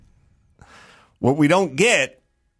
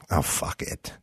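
muttered giving up; 12 semitones lower, 10 dB quieter than usual. Retold or imitated. White guys giving up.

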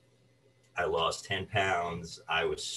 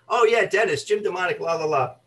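much higher, louder breezy agent voice; chatty agent; 10 semitones higher, 6 dB louder than usual. Retold or imitated. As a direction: rattle it off like a slick talent agent. Imitating chatty agent on phone.

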